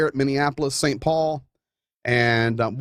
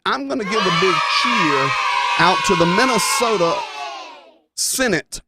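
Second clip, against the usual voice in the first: big cheer; 4 semitones higher than usual. Real, not acted.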